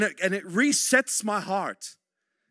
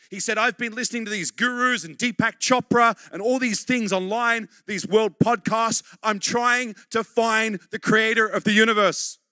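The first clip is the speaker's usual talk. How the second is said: 1 fervent preaching; 4 semitones higher, 6 dB louder than usual. Real, not acted. Preaching at full force.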